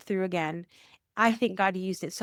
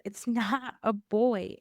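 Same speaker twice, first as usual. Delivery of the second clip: laughing; slower than usual. Retold or imitated. Friend breaks news, laughs.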